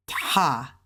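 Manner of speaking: TA with a strong puff on the T; low TA, airy burst after T; like "take". Shown as a demonstration. Teacher introduces initial T to learners, TA like take. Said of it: "it's like you saying take".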